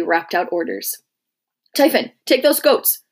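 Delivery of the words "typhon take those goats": a higher, louder furious curse; swearing. A narrator's reading. Centurion cursing the goats that raised the alarm, angry oath. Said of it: "the centurion swore".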